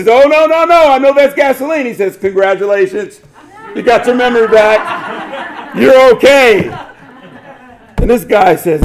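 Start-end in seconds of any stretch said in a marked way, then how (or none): 0.1-1.9 high, loud, panicked protest; quick protest. Retold or imitated. Young man refusing the gasoline, high loud protest. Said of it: "Mister Young quickly protests". 2.2-6.7 high, laughing through the words; can't hold back the laugh as he gloats; laughing doctor. Retold or imitated. Doctor gloating over the tricked patient, laughing.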